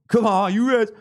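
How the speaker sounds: loud, high terrace cheer; fan's rallying shout. Real, not acted. Host rallying fellow fans during the stream, loud cheer. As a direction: shout it out like a supporter. Football fan chant to viewers.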